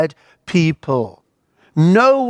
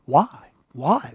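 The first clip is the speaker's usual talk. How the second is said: fading echo; 4 dB quieter than usual. Retold or imitated. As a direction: echo fading away into silence. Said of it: "the only echo coming back is".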